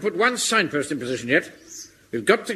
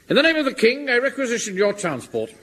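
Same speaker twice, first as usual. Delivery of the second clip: pompous proclamation; 9 semitones higher than usual. Acted. Captain pompously commandeers the car.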